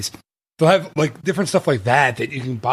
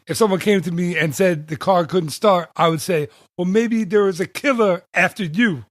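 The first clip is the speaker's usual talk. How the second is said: lightly imitated comic, rising higher toward the punchline; Mitch Hedberg; 4 semitones higher than usual. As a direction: deliver the joke in a rough stand-up impression. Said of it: "Mitch Hedberg accent when he says".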